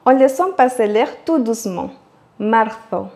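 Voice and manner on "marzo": Marzo with the Z lisped like English th, Spain style; Castilian Spanish accent. Shown as a demonstration. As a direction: Marzo with a soft lisp, as in Spain. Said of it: "langue derrière les dents".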